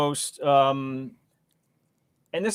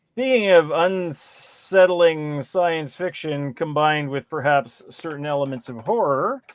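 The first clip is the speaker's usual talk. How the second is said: horror trailer voice. Pretend. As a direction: tease the movie like a spooky trailer. Dramatic Halloween movie announcement.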